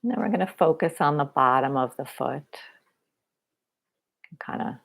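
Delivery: unhurried body-scan guidance with long pauses; guided meditation. Real, not acted. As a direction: guide them gently through a body scan.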